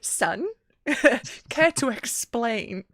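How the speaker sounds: slow, pointed demand; a father expecting an explanation; stern father. Retold or imitated.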